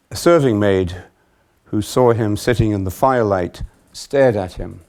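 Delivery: projected Gospel narration; scripture reading. A narrator's reading. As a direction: read the passage out clearly to a congregation. Reads the Gospel passage aloud.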